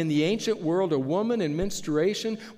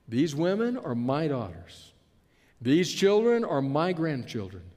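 "my" leaned on; stress on my. Acted. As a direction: press each "my" to claim them. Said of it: "notice how he uses the word my".

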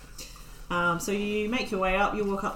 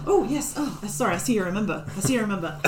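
put-on old gnome woman; much faster than usual. GM voices the gnome gatekeeper.

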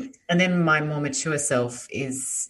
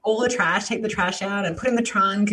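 put-on loud, high American kid calling Mom; yelling across the room; 11 semitones higher, 3 dB louder than usual. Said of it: "they're all like".

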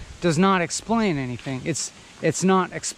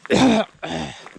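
second hard cough after choking; coughing up water. Real, not acted. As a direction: cough to clear water from throat. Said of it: "a little water went down the wrong pipe".

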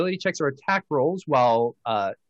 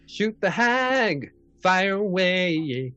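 rallying cry; 4 semitones higher, slower than usual. Real, not acted. GM cheering the shot.

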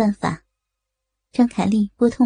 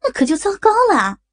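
hurried urging; 7 semitones higher than usual. Acted. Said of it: "急忙说".

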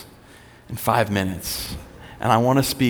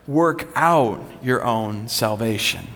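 slow, deliberate quote; slow emphatic reading; slower than usual. Acted. Pastor reading another translation slowly and deliberately. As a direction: lean into out, slowly. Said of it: "some translations say".

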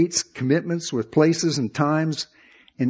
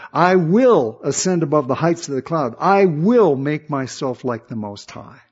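Satan's boast; 4 dB louder than usual. Retold or imitated. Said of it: "Speaking to Satan".

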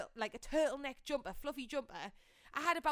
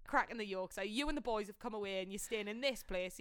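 dry, teasing disbelief; sarcastic; 2 semitones lower than usual. Retold or imitated. Guest teases him about staying in this mansion, sarcastic. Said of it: "I don't think he got my sarcasm".

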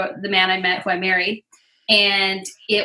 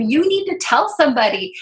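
urgent plea; 4 semitones higher than usual. Retold or imitated. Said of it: "it was like shaking him".

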